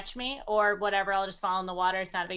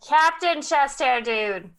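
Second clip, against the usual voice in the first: drawn-out hail; calling out; 3 semitones higher, 4 dB louder, slower than usual. Acted. Player calling the corrected name across to him, calling out. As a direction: hail a captain from afar, stretching it out.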